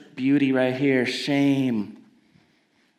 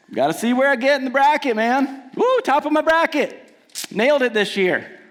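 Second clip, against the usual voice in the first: high, fast bragging fan; lightly voiced bracket bro; 6 semitones higher than usual. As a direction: brag like a sports bro.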